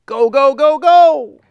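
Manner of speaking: frantic escalating go go go; amped-up urging. Retold or imitated. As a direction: hype yourself up like a racing heartbeat. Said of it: "accelerated and amped up with us".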